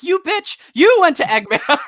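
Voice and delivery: high, loud hammed-up retort; mock outraged shout. Dimitri throws blame back at Leonda, mock outraged shout. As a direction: fire the blame back in a squealing mock yell.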